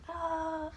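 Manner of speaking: soft, high "aah" of a cheering crowd; mock crowd cheer. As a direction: imitate a distant crowd roar, quietly. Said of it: "The whole crowd goes wild".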